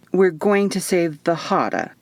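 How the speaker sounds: flat, doubtful echo of her words; skeptical repeat. Acted. Eva echoing Isadora's grand mission back, skeptical. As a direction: repeat it like you don't buy it. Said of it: "I repeated skeptically".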